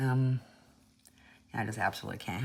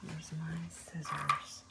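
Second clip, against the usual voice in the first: slow whisper to herself; 3 semitones higher, 12 dB quieter, slower than usual. Real, not acted. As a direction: murmur it slowly under your breath. Whispering while searching.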